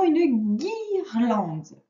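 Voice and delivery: slow dictation. Shown as a demonstration.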